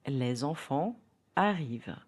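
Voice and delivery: "Les enfants" linked with a z sound; French liaison. Shown as a demonstration. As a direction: join "Les" to "enfants" with a z, as a teacher demonstrating. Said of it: "say a sentence and try to hear the liaison".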